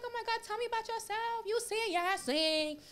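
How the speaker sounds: high, gushy office-lady voice; mock the overeager coworker; gushing white coworker. Coworkers fussing over her, high and gushing. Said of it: "They're like".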